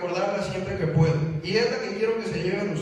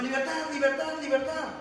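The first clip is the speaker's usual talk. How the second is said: higher, sing-song parrot cry of "Libertad"; parrot squawk; 5 semitones higher than usual. Retold or imitated. Speaker voicing the caged parrot's cry to the audience, high squawk. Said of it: "el lorito gritaba".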